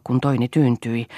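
plain reading voice

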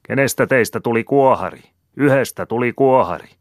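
high, loud ringing call; loud, high proclaiming shout. A narrator's reading. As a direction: announce it loudly to the crowd. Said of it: "Heikki taas huusi".

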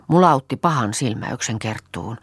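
ordinary delivery, nothing marked

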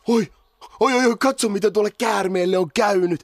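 alarmed. Acted. Sees hurt snake.

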